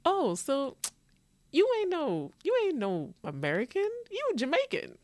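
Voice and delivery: high, sing-song Jamaican patois imitation; mock Jamaican accent. Americans voiced with Jamaican twist.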